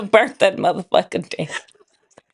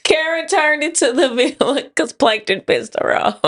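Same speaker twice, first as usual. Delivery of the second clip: higher, laughing through the words; amused laughing; 4 semitones higher than usual. Real, not acted. Co-host explaining the cartoon villain song, amused laughing. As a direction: explain it while cracking up.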